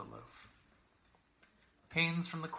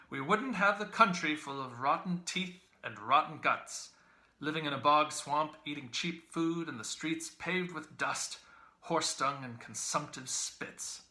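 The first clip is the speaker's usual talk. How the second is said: loud, higher ranting voice; 5 semitones higher, 10 dB louder than usual. A narrator's reading. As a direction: hold forth loudly over the breakfast. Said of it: "he said to her somewhat loudly".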